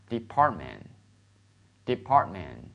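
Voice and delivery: "department" slowly, both Ts softened; touch the Ts in "department" only lightly; careful slow model of "department" with barely released Ts; light T sounds. Shown as a demonstration. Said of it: "你读轻一点".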